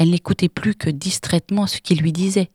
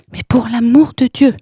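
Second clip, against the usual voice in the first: toneless terror; 7 semitones higher, 7 dB louder than usual. Acted. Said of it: "interrompit Irène d'une voix blanche".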